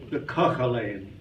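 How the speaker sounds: Kochelein with a throaty Ch; Yiddish word Kochelein. Shown as a demonstration. Teller shows the word he practised, Kochelein with a throaty Ch. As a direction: scrape the Ch in Kochelein from the back of the throat. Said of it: "I had to practice that Ch all week long".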